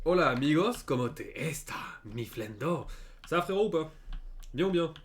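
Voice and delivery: mock greeting. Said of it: "T'as pu voir mon magnifique English accent".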